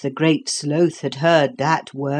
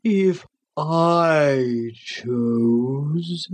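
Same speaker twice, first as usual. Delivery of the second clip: words stretched through a huge yawn; much slower than usual. Acted. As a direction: yawn it out very slowly. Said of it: "yawning like a hippopotamus".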